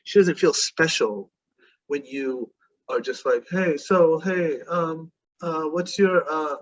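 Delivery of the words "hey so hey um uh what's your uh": hesitant, fumbling mock opener; halting, unsure mock pickup line; timid approach. Shown as a demonstration. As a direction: stumble through it like a nervous guy. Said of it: "weak, timid approaches".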